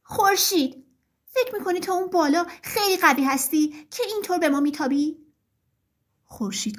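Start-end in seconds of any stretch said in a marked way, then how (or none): 0.0-5.2 mild storybook shout, pitched up; raised voice, indignant challenge; calling out. Acted. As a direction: call up high to someone far above. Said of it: "فریاد زد".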